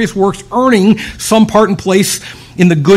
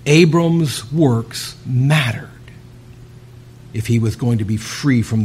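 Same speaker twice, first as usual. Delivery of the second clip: hushed whisper; 6 semitones lower, 5 dB quieter than usual. Real, not acted. Preacher drops to intimate aside.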